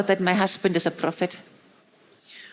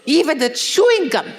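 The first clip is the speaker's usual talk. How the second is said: laughing retelling; 5 semitones higher than usual. Retold or imitated. Wife retells her husband's sermon joke, laughing. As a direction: laugh through the punchline.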